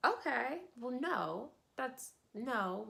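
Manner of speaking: mock-defensive husband, pitch jumping up; acted flustered denial. Husband denying his wife left him, flustered.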